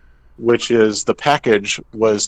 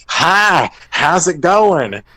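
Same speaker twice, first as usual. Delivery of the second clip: awkward cheery greeting; 8 semitones higher, 4 dB louder, much slower than usual. Retold or imitated. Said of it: "'cause they're like".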